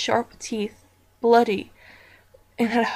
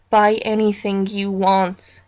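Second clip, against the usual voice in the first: out-of-character voice; 5 dB louder, slower than usual. Acted. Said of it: "in an out-of-character voice".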